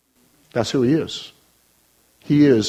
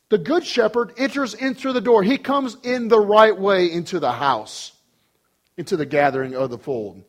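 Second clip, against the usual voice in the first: higher pulpit voice; emphatic preaching; 5 semitones higher than usual. Real, not acted. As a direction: press each phrase on the congregation. Preaches at full force.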